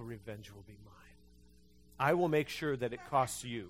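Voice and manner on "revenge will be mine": low, soft mock-sinister; a low, sinister murmur; mock menace. Pastor voicing a vengeful thought to the congregation, mock-sinister and low.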